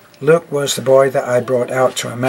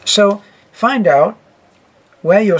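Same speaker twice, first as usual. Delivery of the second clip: odd put-on voice; 6 semitones higher, 4 dB louder than usual. Shown as a demonstration. Sudden odd voice.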